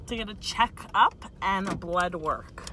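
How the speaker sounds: "To get a checkup and blood work" said slowly, every word shaped deliberately; slow careful articulation. Real, not acted. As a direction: spell it out slowly with a numb mouth. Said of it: "Oh, sorry, a checkup".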